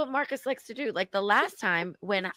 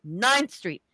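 "Ninth Street" yelled a bit louder; mild yell; 3 dB louder than usual. Retold or imitated. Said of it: "Just kept yelling Ninth Street into the phone".

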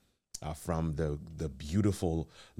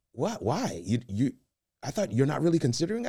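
much higher, quick surprised wife; 9 semitones higher, 3 dB louder than usual. Retold or imitated. Husband voicing wife asking why he isn't considering it, higher. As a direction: play the wife's puzzled surprise.

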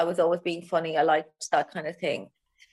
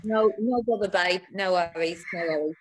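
casual attempt at an Essex accent. Shown as a demonstration. Comic demonstrates her English accent to the host, Essex accent. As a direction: try on an Essex accent, matey. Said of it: "mine is more ethics, my accent".

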